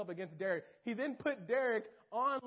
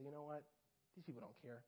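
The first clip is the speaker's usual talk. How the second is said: mild whispered taunt; 5 semitones lower, 14 dB quieter than usual. Acted. Satan snatching humility.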